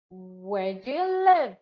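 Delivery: slow, live falling at the end; wh-question tune. Shown as a demonstration. Teacher modelling a WH question, slow falling tune. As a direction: spell out the question slowly. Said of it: "what about W H questions".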